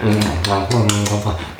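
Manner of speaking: string of little pretend tasting hums; imitated tasting hum. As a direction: mimic someone working at an aftertaste. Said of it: "make you sort of go".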